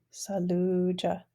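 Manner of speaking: Saluja said slowly, the long u in sa-lu-ja drawn out; teacher's slow model of Saluja; slow repeat. Shown as a demonstration. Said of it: "our long vowel U word".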